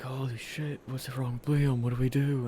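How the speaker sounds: mock panic. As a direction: act out the friends' panic. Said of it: "freaking out".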